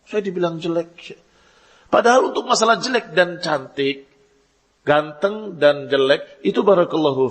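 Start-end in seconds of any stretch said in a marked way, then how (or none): 0.1-1.2 softer, hurt mock whine; a hint of wounded pride; mock sulking complaint. Voices offended person sulking.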